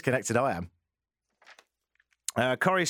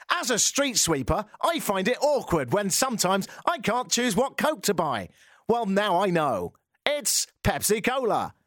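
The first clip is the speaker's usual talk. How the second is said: mock voice-over; 6 semitones higher than usual. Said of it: "You know what I mean?".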